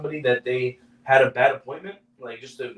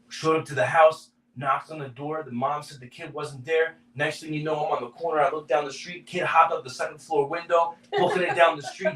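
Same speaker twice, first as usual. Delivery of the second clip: lightly raised, acted-up retelling; staged story; 3 semitones higher than usual. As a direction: play the upset recruiter telling a lie. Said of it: "I go all out".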